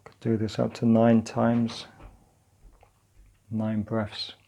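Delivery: calm, unhurried practice guidance; guided meditation. Acted. Teacher leading partners through grounding and breathing, calm guided meditation. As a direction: guide them gently through it, leaving long pauses.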